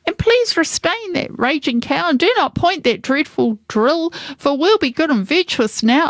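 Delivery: high-pitched pleading hoods; crying surrender. Acted. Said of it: "then all the hoods cried".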